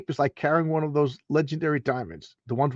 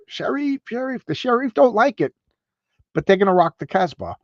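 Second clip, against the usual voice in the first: mock villain voice; 7 semitones higher than usual. Mock villain sing-song.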